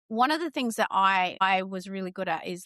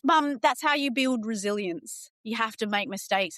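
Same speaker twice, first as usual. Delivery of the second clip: daughter quoted. Retold or imitated. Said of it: "she goes".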